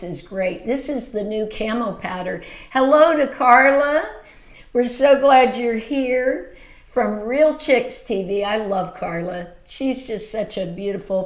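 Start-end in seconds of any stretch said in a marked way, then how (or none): 2.7-8.4 excited greeting. Real, not acted. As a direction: greet her like a friend just walked in. Greeting a guest joining live.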